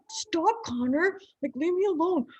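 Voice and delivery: loud high mock shriek; wife shrieking at husband to leave; snappy wife. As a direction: shriek at him to go away. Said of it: "And she was like".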